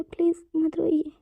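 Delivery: "Please मत रोइए" said slowly, close to crying; slow tearful plea. Acted. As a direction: beg him gently, slowly. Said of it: "वांगजी भी रोना शुरू कर देता है".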